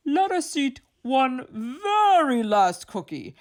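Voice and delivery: high, half-laughing plea; whiny pleading. A narrator's reading.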